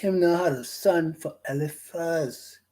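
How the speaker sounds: slow, drawn-out Bahamian dialect; Bahamian broad English. Shown as a demonstration. Preacher retelling Timnah's story as locals would, broad Bahamian English. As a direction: stretch it out like Bahamian gossip. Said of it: "That's how they say it".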